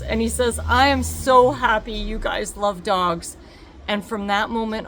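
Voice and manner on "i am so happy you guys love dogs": higher, louder, slow and beaming; overjoyed, stretching every word; delighted doctor. Retold or imitated. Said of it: "his entire demeanor changes".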